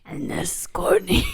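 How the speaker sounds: breathy whispered introduction; whispered intro. Pretend. Whispering a silly voice-train intro to the pets. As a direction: whisper your name like a secret. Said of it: "I'll voice train them".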